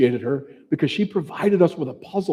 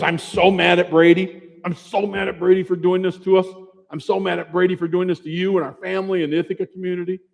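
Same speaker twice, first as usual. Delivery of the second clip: higher, emphatic retelling of a furious wife; imitating someone fuming, pitched up; angry retold rant; 4 semitones higher, 3 dB louder than usual. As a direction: hammer out the repeated complaint, heated but retold. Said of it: "she's as mad as I've ever seen her".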